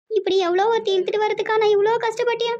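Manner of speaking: mother wailing over wasted devotion; anguished lament. Acted. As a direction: climb into a weepy complaint. Mother repeats her betrayed lament.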